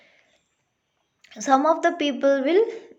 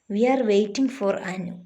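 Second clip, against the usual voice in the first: "Anu" drops at the end; falling statement tone; 2 semitones lower, faster than usual. Shown as a demonstration. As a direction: read it as a statement, letting "Anu" fall. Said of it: "and in answers".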